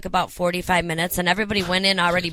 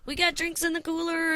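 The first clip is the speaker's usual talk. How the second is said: higher, slow, lightly put-on grateful voice; gushing host; 10 semitones higher, 7 dB quieter, slower than usual. Charlie Sheen thanking Kelly backstage, lightly imitated in a higher, gushing voice. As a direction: mimic an overly thankful star welcoming a guest. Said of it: "and he's like".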